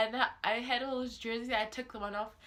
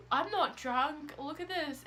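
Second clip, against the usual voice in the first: put-on drunk; 5 semitones higher, slower than usual. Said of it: "like, drunk".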